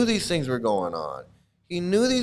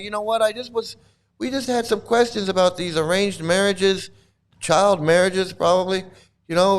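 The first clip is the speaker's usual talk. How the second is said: complaining devotee; 6 semitones higher than usual. Retold or imitated. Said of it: "He's like".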